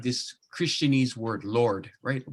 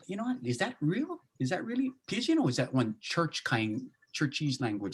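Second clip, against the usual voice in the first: half-acted doubt about churchy words; skeptical questioning; 3 semitones higher than usual. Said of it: "and go".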